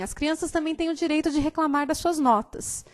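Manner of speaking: a light Chico Bento comic-strip voice; complaining country boy. Retold or imitated. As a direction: protest like a cheeky rural schoolboy. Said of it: "ele diz assim".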